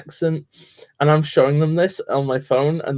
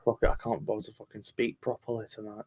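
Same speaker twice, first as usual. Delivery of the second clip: tired northern accent; 5 semitones lower, 15 dB quieter than usual. Shown as a demonstration. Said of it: "I just sort of feel low energy".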